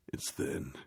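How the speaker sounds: breathy whisper of the same words; whispered repeat. Shown as a demonstration. Whispering the complaint back to the listener. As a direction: drop to a whisper for emphasis.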